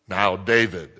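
"Now, David" lightly voiced as a firm old lady; a hint of an old lady's warning in "Now, David"; her stern "Now, David". Dying worship leader lightly scolding her pastor. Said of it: "That's how she said it".

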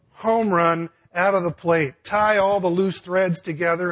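pastor describes his dream retreat finale, excited and building. Real, not acted. Excited about the plan.

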